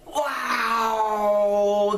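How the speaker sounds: long drawn-out wow; amazed wow. Real, not acted. Reviewer reacting to a movie that amazed him, amazed.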